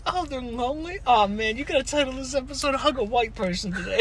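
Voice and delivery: high-pitched mock amused reaction; high put-on friend voice; imitating laughing friend. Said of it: "she dies laughing".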